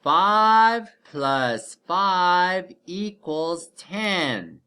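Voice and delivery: very slow, each word stressed; slow emphatic. Shown as a demonstration. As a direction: spell the sum out slowly. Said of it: "Our first addition equation is complete".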